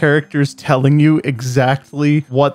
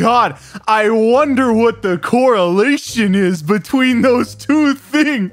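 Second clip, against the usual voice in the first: sarcastic; 8 semitones higher, slower than usual. Real, not acted. Sarcastic remark on football and math.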